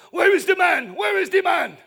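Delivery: loud, high mock mob yell; imitating screaming mob. Preacher retelling a mob searching for a man, imitated screaming. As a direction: yell it out like an angry crowd hunting someone. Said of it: "a mob starts screaming".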